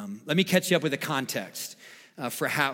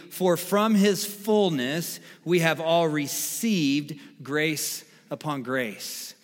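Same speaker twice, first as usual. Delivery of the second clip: "received" drawn out with weight; stress on received; 3 semitones higher, slower than usual. Shown as a demonstration. Pastor reading the church's vision verse, stress on "received". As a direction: read the verse slowly, leaning on "received". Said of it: "Emphasis on the word receive".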